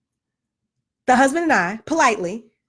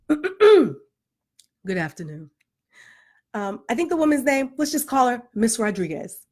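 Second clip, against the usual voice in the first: Claire Huxtable voice. Retold or imitated. Mom calling the school office, in a lightly polished proper voice. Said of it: "in my Claire Huxtable voice".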